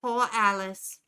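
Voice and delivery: put-on pitying Jersey accent; a light Jersey sigh of pity. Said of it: "It leans into stereotypes".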